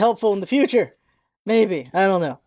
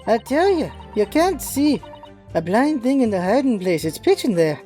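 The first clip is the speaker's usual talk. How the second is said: put-on Cockney street girl voice; a rough London urchin lass; man doing a woman's voice. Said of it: "It's not a girl voice in any way".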